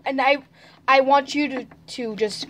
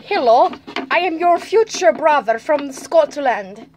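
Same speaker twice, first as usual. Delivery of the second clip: slow, badly faked Scottish; bad Scottish accent. Posing as a future brother from Scotland, bad Scottish accent. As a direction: put on an unconvincing Scottish accent. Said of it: "That's not a Scottish accent".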